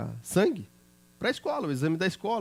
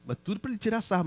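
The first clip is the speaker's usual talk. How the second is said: ordinary delivery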